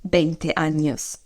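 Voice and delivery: slow, deliberate Spanish sentence; slow model phrase. Shown as a demonstration. Teacher repeating the Spanish answer slowly. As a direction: lay out each word slowly.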